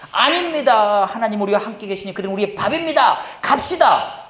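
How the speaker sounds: loud, emphatic protest rising to a high call; rally the people with full conviction; acted bold rallying cry. Two faithful scouts urging Israel onward, acted bold cry.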